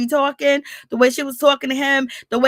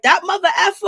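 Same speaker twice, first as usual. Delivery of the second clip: laughing mock curse; 7 semitones higher, faster than usual. Husband curses, teller laughs.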